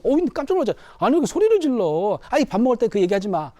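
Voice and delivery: startled wife, asking why he's yelling. Acted. Wife reacts to husband's outburst. (놀란 아내의 항의)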